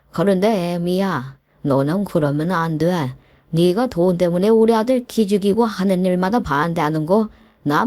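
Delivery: a hint of a gruff old father scolding his daughter-in-law; mild gruff scolding, understated; angry father-in-law. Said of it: "아버님이 대뜸 화를 내는".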